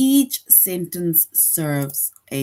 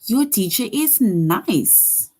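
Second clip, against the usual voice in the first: slow, louder, falling with strong feeling; exclamation; 4 semitones higher, 4 dB louder, slower than usual. Shown as a demonstration. Teacher reading an exclamation to grade two, with feeling. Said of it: "ends with an exclamation point".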